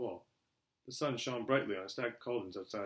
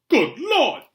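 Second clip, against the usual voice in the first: high, loud gasp of amazement; astonished barman; 17 dB louder than usual. A narrator's reading. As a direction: exclaim in sheer astonishment. Barman stunned on seeing Harry.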